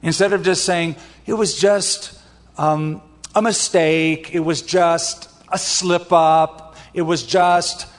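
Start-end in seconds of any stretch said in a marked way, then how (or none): 1.2-7.9 slow, halting, hedged excuse; minimizing excuse. Acted. Pastor mimics a sinner playing down a mistake, hesitant excusing. Acting out someone minimizing their sin.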